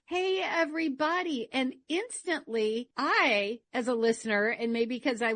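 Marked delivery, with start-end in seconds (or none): 0.1-1.5 higher-pitched greeting to a crowd; mock podcaster greeting. Podcaster opens the microphone to the masses, mock crowd greeting. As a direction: imitate a host addressing the masses. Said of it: "They feel like they have to say".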